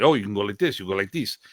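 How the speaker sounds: lightly imitated teacher's accent; Remy Presas. Student copying his teacher after a camp, lightly accented impression. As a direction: slip into a mentor's accented way of talking. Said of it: "I started doing".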